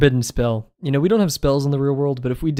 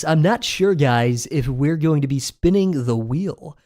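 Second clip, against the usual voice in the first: YouTuber voice; 3 semitones higher, 3 dB louder, slower than usual. Shown as a demonstration. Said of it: "YouTuber voice".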